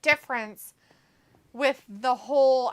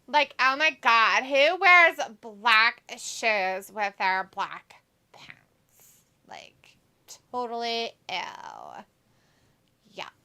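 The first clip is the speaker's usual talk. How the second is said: put-on Valley girl voice; slower than usual. Shown as a demonstration. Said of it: "sound like a Valley girl".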